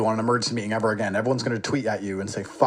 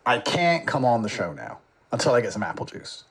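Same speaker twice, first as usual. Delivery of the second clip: mock crying. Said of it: "He said".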